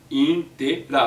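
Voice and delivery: "intera" broken into in-te-ra; teacher dividing "intera" into spoken syllables. Shown as a demonstration. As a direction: separate each syllable of "intera". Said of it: "inter é um prefixo de sílabo".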